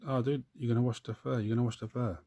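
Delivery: loud, high mock shout at the painter; mock viewer yelling. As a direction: yell it like an outraged commenter. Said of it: "Someone's probably screaming at the".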